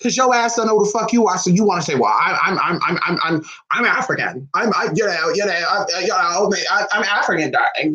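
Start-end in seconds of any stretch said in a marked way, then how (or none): 1.9-7.9 stammering mock pretender; mocking imitation. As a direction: imitate someone fumbling for an identity. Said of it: "you're sounding like that shit".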